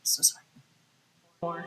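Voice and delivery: slow, drawn-out apology. Real, not acted. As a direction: stretch the apology out slowly. Apologising for screen mix-up.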